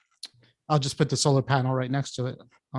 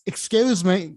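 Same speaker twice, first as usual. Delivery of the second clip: higher, mock British accent; fake British accent; 6 semitones higher, slower than usual. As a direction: imitate teens faking a British accent. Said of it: "putting on a fake British accent".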